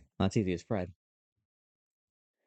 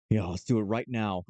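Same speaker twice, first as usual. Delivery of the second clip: Nicolas Cage voice. Acted. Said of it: "this is how Nick Cage talks".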